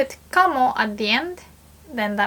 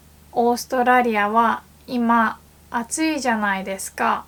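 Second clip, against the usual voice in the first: formal; faster than usual. Shown as a demonstration. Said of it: "more formally".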